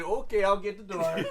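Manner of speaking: lightly voiced Minnesotan helper; Minnesotan accent. Robot answering the door, Minnesotan accent. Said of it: "I power on and I say".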